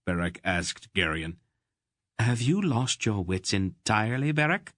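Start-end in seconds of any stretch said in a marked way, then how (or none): 2.2-4.7 sharp angry snap, rising high on the name; snapping. Acted. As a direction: snap at him in disbelief. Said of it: "Aunt Pole snapped".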